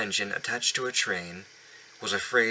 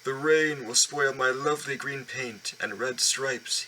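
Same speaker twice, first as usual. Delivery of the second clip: sulky proud engine; 4 semitones higher, slower than usual. Acted. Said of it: "he would not move".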